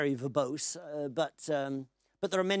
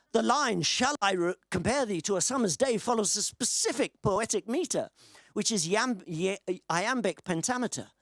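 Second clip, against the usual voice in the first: emphatic read-out of a formal reply; lightly performed, measured explanation; reading aloud; 5 semitones higher than usual. Acted. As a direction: recite it as a dutiful chatbot's answer. Reads out chatbot's answer.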